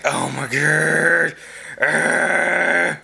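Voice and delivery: slow, drawn-out exasperated oh my god; exasperated groan. Retold or imitated. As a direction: sigh it out, fed up. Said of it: "That's how I feel".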